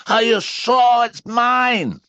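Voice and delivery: very high, slow, eager squeak; excited squeak. A narrator's reading. Piglet asking Pooh about his stick, excited squeak. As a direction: squeak with hope. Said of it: "squeaked Piglet excitedly".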